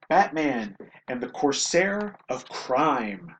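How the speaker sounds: slow, measured title read; title announcement. Acted. Host presents a comic ad's title, slow announcement. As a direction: announce it like a story title, drawn out.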